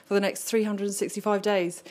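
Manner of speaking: out of breath from the long walk; breathing hard between words. Real, not acted. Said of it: "Excuse me if I'm out of breath".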